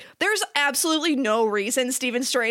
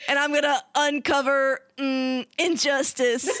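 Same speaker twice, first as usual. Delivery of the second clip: mock New Yorker. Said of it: "trying to be, I guess, a New Yorker".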